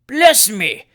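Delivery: amazed, loud outburst; startled exclamation. A narrator's reading. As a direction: exclaim it as if suddenly remembering. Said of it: "exclaimed the mayor".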